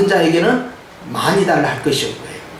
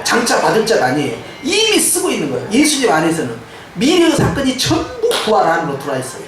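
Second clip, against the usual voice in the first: emphatic preaching; 3 semitones higher than usual. Real, not acted. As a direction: proclaim it to the congregation as settled victory. Climax of the sermon.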